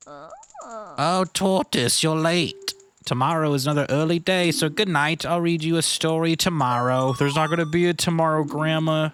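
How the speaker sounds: a hint of a sleepy old grandma; lightly voiced grandma. Grandma telling the boy to sleep, lightly voiced. Voicing grandma's bedtime lines.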